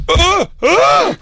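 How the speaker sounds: high rising startled cries; hammed-up panicked yelps; mock frightened yelps. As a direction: yelp as the mouse appears. Retold fright at the mouse.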